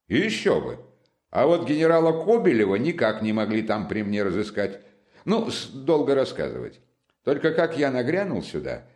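animated friend boasting lightly; a touch of self-pleased storytelling; lively Razumikhin. Acted. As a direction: reel it off with relish.

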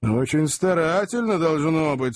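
dry. A narrator's reading. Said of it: "сухо осведомился Сэм".

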